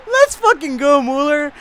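high, loud celebratory yell; ecstatic shout. Real, not acted. Gamer cheering Mueller's beautiful goal, ecstatic shouting. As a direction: yell it high, bursting with joy.

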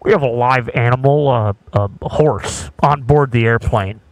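calm airline pilot announcement; pilot cockpit headset. Pretend. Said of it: "you wanna do the pilot's voice?".

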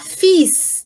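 "fis" with the last S clearly sounded; sounded final S. Shown as a demonstration. Teacher showing the exception in "fis", final S pronounced. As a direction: end "fis" on an audible hiss of S. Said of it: "aqui vai pronunciar".

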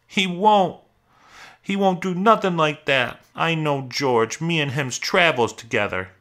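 very high, loud protest, coming down gradually; desperate denial. Acted. Lenny denies the rabbit's threat, desperately protesting. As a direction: cry out the denial, then insist.

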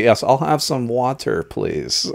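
over-corrected, forced pronunciation of "water"; forced proper water. Shown as a demonstration. Adjusting the accent when travelling, forced proper "water". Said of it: "that sounded so ... Forced".

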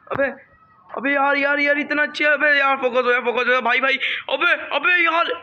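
frantic, delighted pleading to focus; excited calling out. Real, not acted. Camera won't focus on sunset.

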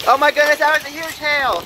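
excited. Real, not acted. Huge hail hitting outside.

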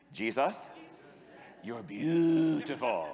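put-on slow, lazy teen delivery; drawn-out half-hearted teen voice; teenage way. Shown as a demonstration. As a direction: say it like a bored teenager. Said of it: "say it the teenage way".

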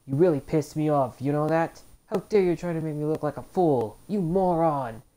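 angry villain line. Acted. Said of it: "The move called".

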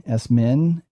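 esmin stressed on MIN; final-syllable stress. Shown as a demonstration. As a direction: put the accent on the end of esmin. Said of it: "I am accenting them on their final syllable".

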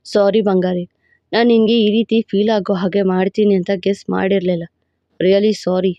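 a proud, possessive lover laying claim; possessive hero voice. Acted. Hero apologises.

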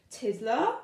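high, loud call for Tiddler; teacher calling out. Acted. Miss Skate calling for the missing pupil, loud.

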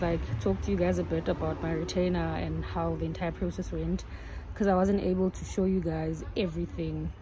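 muffled behind surgical mask; speaking with mouth covered; through a face mask. Real, not acted. Seen 1: Mask worn over mouth and nose in every labelled frame.

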